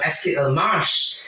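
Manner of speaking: slow, careful French "Est-ce qu'il marche?"; teacher modelling French slowly; French question. Retold or imitated. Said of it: "she was asking".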